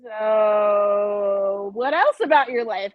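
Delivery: eager date voice. Retold or imitated. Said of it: "and I'm like".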